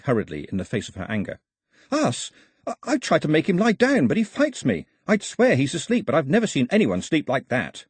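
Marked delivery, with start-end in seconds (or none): 1.9-7.9 anxious. A narrator's reading. Pilou anxiously defending himself.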